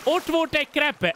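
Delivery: high, startled warning cry; alarmed shout. Real, not acted. Player warning friends a creeper is there, startled and high. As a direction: blurt out the danger to friends.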